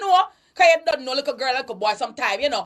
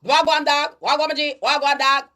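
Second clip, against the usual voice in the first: imitated youth slang. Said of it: "speaking like that".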